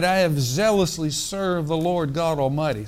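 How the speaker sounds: a mildly put-on smug, self-righteous Elijah; mock the prophet's pride with a knowing laugh. Shown as a demonstration. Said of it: "Sounds like a little self-righteousness here".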